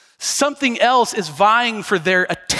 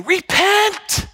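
harsh repent; 10 semitones higher than usual. Shown as a demonstration. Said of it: "Not like".

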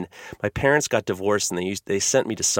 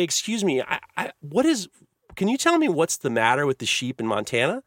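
put-on timid child; 3 semitones higher than usual. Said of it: "I get the courage to say".

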